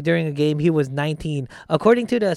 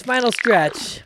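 drawn-out emphasis; 6 semitones higher, slower than usual. Real, not acted. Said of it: "All right, final stretch".

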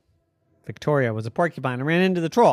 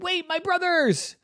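sudden realisation. Acted. Victoria remembers brothers.

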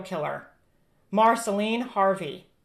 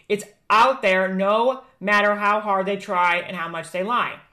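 doomsday street preacher. Acted. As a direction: proclaim the judgment like a street preacher. Prophecy read against Hunter Biden.

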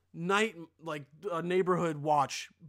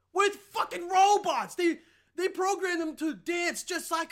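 amazed outburst; 9 semitones higher, 5 dB louder than usual. Real, not acted. Amazed by dancing robots.

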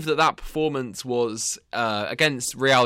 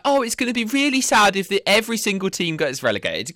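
mock-sad quote, pitched up; mock lament; 8 semitones higher than usual. Host teasing a co-host with their own words, mock lament. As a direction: imitate a co-host's lament in a higher voice. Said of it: "Last week you were like".

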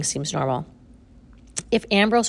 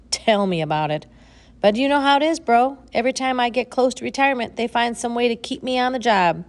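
put-on weary old woman; 6 semitones higher, 4 dB louder than usual. A narrator's reading. Ma voiced.

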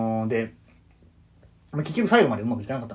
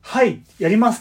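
high, loud, eager yes; eager volunteer; 9 semitones higher, 6 dB louder than usual. Retold or imitated. Student volunteering for the PR role, high and loud. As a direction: jump at the job for a laugh. Imagined eager reply to get laughs.

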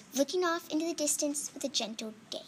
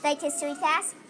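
commercial pitch; 2 semitones higher, faster than usual. Pretend. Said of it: "making up a commercial for their topic".

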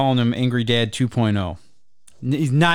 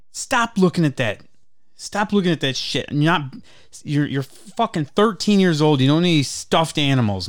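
higher-pitched, exasperated scolding; mock freaked-out dad; 3 semitones higher than usual. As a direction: imitate a fed-up dad berating his kid. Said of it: "like, freaking out at him for touching".

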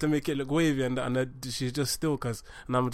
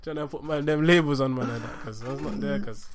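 roadman voice; 4 dB louder than usual. Acted. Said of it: "We clearly have a roadman".

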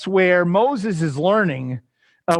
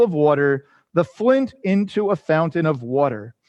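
measured, declamatory psalm reading; scripture reading. Acted. Teacher reading the psalm aloud to the class, measured scripture reading. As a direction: read it out in steady phrases, each falling at its close.

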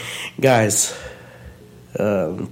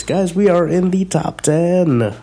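radio announcer; 6 semitones higher, slower than usual. Acted. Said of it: "I can get really radio announcy".

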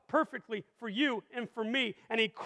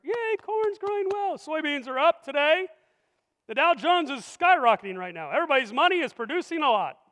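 mock cheer; 2 semitones higher than usual. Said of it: "I got farmers over here".

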